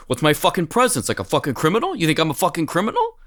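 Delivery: touchy mobster-type, lightly hammed up; angry Paul Sorvino. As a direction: imitate a man taking offense at everything. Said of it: "extremely angry about everything all the time".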